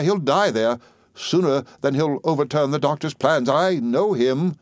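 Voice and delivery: put-on high, gushing old lady voice; fussy old lady. A narrator's reading. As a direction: dramatize with sweeping certainty. Old soldier mother voiced.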